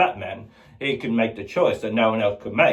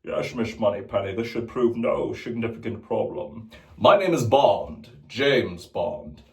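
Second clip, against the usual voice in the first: James Bond impressions; 3 semitones lower than usual. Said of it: "the different James Bonds".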